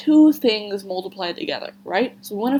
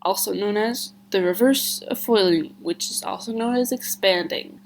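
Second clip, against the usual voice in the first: blocked nose; 3 semitones higher than usual. Real, not acted. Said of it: "I sound a little bit congested".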